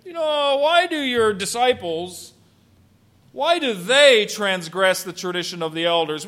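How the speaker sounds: feigned offhand inquiry; nonchalant. Acted. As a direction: ease into it as if it hardly matters. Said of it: "very nonchalantly said".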